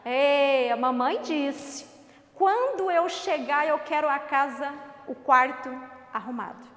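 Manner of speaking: a teasing older sibling, lightly voiced; hint of a bratty brother rubbing it in; mocking big brother. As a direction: taunt the little one with mom's order. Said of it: "irmão mais velho ... tirar sarro com você".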